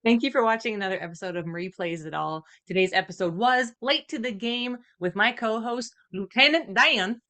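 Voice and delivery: outro with a hint of an Italian accent; slight Italian accent. Co-host signing off the episode, slight Italian accent. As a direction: let a light Italian accent slip out. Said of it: "said that outro with an Italian accent".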